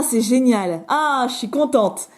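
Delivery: ordinary delivery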